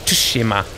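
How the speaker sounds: Tsushima with the T sounded; sounding out TS. Shown as a demonstration. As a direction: say Tsushima as "too-shima". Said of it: "It's a T S".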